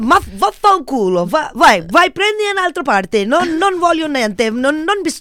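high, loud Italian brush-off; rude Italian. Retold or imitated. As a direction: tell the rich client off in Italian. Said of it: "have to be kind of rude to them".

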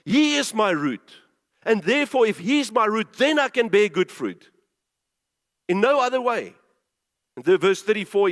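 emphatic, declaring pulpit voice; punchy sermon delivery with weighted key words; preaching. Real, not acted. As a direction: proclaim it forcefully to the congregation. Preaches on scripture at full force.

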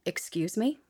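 stern rising challenge; a hint of a warning mom; mother voice. Shown as a demonstration. Cohost showing the mother voice to a rude caller. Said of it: "find that mother voice inside".

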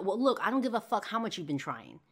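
acted irritated comeback; snapping back. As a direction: cut down the excuse. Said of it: "he snaps back with".

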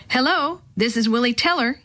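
ordinary delivery

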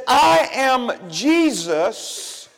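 slow, solemn voice from heaven; voice of Jesus. Acted. Jesus answering Saul on the road, slow and solemn. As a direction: speak it slow and grave, like a voice from the light. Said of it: "And he said".

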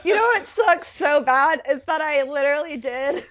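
laughing through the words; rueful laugh while talking. Real, not acted. Laughing about cancelled gigs.

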